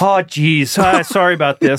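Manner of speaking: lightly voiced sheepish Minnesota husband; understated Minnesota apology; apologetic Minnesota accent. Reluctant husband forced to be aggressive, apologetic Minnesota accent. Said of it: "you're just not that kind of person".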